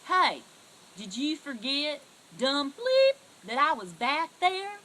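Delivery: loud angry yell at her friend. Retold or imitated. Yelling at the friend who drove off without her, furious.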